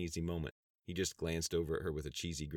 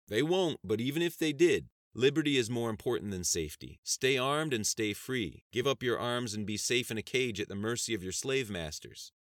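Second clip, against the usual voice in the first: raised, higher voice of conviction; impassioned; 6 semitones higher, 6 dB louder than usual. Acted. Congressman lecturing his opponents on liberty, impassioned. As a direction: argue it loud and high.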